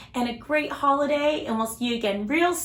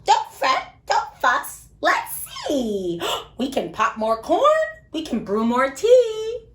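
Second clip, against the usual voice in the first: squeaky mouse. Acted. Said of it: "Mouse squeaks".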